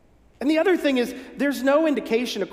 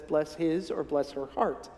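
hushed aside; 6 semitones lower, 7 dB quieter than usual. Retold or imitated. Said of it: "often spoken in a whisper".

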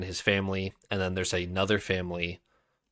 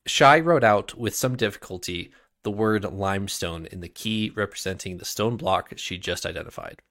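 reading a fantasy novel aloud; story narration; 2 semitones higher, 3 dB louder than usual. A narrator's reading. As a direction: tell it like a storyteller. Reads a novel prologue aloud.

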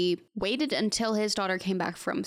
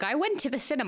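lightly mocking British accent; British moviegoer, higher than usual; 5 semitones higher, faster than usual. Mocking how British reviewers talk, British accent. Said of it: "British people being like".

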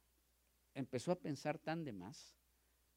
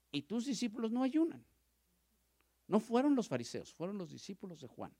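higher and louder protest; raised indignant cry; indignant outburst; 10 semitones higher, 9 dB louder than usual. Acted. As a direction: demand it loudly. Indignant disciples, then preacher's emphasis.

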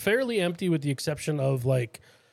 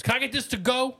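mock to-go request; 10 semitones higher than usual. Retold guy asking for to-go box.

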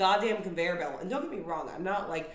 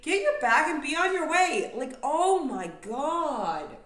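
much higher, louder fed-up order; exasperated command; 7 semitones higher, 6 dB louder than usual. Real, not acted. Ranting at slow travelers, loud exasperated order. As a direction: bark it like you've had enough. Peak of airport rant.

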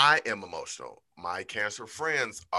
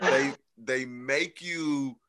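laughing; 7 semitones higher, much slower than usual. Real, not acted. Laughs over therapy memory.

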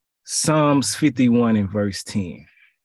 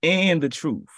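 "And the truth." lifted higher, then falling; raised echo; 5 semitones higher than usual. Acted. Preacher echoing Jesus's words, raised pitch. Echoes phrase higher after pause.

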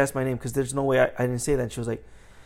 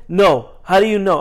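higher, louder imitated indignation; mad customer; 4 semitones higher, 5 dB louder than usual. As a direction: mimic an annoyed customer demanding answers. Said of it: "She got mad".

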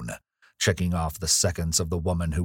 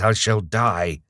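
louder, higher, slow desperate wail; haunted man crying out; anguished cry; 4 semitones higher, 5 dB louder, slower than usual. Acted. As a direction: plead like a man at the end of his rope.

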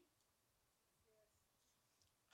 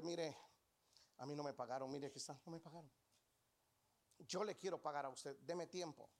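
low, soft, humble plea for more time; lightly voiced humble debtor, lower and softer; pleading debtor; 4 semitones lower, 4 dB quieter than usual. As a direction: ask meekly, like a man who owes money.

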